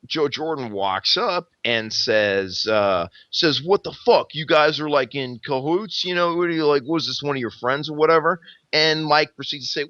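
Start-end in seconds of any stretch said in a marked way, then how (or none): 3.6-8.4 higher-pitched mock indignation; retold pissed-off challenge. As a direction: act out an angry accusation, higher. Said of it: "Joe's getting pissed off".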